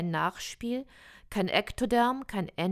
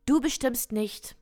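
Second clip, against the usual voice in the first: a touch louder, pushed out as Paul; half-yelled into the phone, retold; Paul shouting into the phone, mildly acted; mild mock shout; 4 semitones higher, 4 dB louder than usual. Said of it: "Paul schreit ins Telefon".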